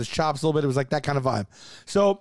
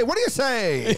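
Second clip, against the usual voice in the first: passing shout; 4 semitones higher than usual. Acted. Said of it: "don't even break stride and go".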